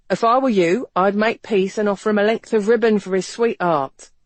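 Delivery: persuading. A narrator's reading. Ransom coaxing Maggie to make peace.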